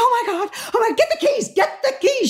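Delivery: very high, frantic mock scream; imitating a woman's excited meltdown; retold panicked screaming. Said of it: "She was screaming in, in Italian".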